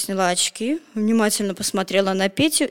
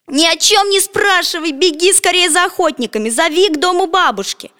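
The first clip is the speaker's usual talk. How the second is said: higher, louder urgent shouting; 8 semitones higher, 4 dB louder than usual. A narrator's reading. Petya shouts at the girl to fetch the hunters, loud. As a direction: yell the order with all your might. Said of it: "закричал изо всех сил".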